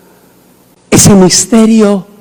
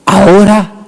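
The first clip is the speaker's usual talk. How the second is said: solemn God; 3 semitones lower, slower than usual. Acted. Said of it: "Y dijo el Altísimo".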